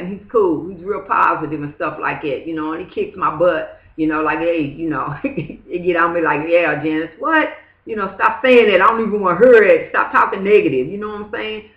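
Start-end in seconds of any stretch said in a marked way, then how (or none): 6.5-10.9 a louder, quicker lecture from a pushy friend; mock scolding friend. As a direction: scold her to stop talking negative. Friend scolding her, retold.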